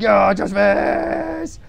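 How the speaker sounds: long drawn-out shout climbing very high; silly stretched-out battle cry; yelled caricature. Acted. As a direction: build to a high, loud mock scream. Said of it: "And then he's like".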